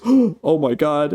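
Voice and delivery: high, slow, drawn-out horror; mock horrified gasp. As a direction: gasp it out, imitating her dread. Acting Kay's horror after gasp.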